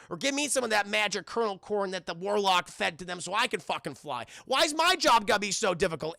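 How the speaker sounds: griping rant, gathering force; mock exasperated mailman. Streamer voicing the mailman griping about Santa, mock exasperation. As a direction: complain like a fed-up worker. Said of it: "he's like".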